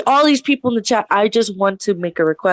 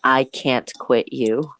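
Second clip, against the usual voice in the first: quoted line; 7 semitones lower, slower than usual. Shown as a demonstration. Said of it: "can you just say this for me".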